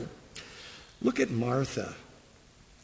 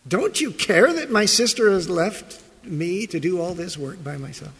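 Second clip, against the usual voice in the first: accusing; 3 semitones higher than usual. Retold or imitated. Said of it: "an accusation".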